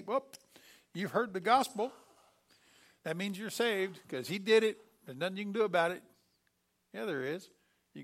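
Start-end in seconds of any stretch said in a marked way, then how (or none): 0.0-6.0 smug claim. Retold or imitated. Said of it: "too many people wanna say".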